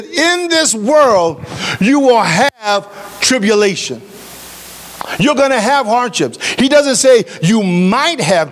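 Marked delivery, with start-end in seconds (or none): 0.0-4.0 slow solemn quote. Acted. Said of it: "Jesus said".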